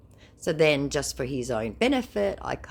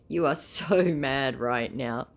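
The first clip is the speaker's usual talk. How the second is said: slow mocking taunt; slower than usual. Taunting scammer.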